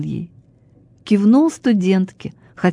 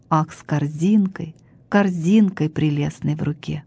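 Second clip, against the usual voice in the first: poem recitation. Acted.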